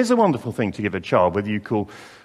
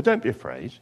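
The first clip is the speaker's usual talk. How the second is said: reassuring; 5 dB quieter than usual. Acted. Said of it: "the angel reassures her".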